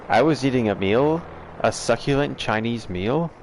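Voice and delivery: quoting the meme in a hammed-up Australian accent; playful Australian accent impression; mock Australian accent. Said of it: "That's the best Australian accent".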